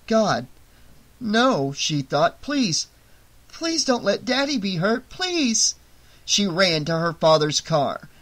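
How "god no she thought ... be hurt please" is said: desperate pleading. A narrator's reading. Desperate inner prayer for father.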